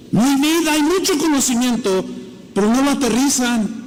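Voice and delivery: forceful, emphatic preaching; with emphasis. Shown as a demonstration. Preacher rebuking learned theologians, with strong emphasis. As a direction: drive each phrase home hard. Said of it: "Así, con este énfasis no se los dije".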